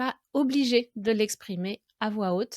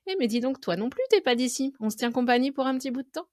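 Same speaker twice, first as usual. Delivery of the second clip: higher, lightly acted friendly approach, speeding up at the end; chatty conversation opener; 4 semitones higher, faster than usual. Lonely speaker approaching someone with an accent, mock-chatty and higher. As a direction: play striking up a chat with a fellow foreigner. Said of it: "pour engager une conversation".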